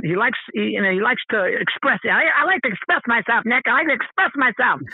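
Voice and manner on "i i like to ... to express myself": lightly imitating a cousin's way of talking; a hint of an impression, repeating himself earnestly. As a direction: do a mild take on a quirky relative. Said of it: "That's how he talks".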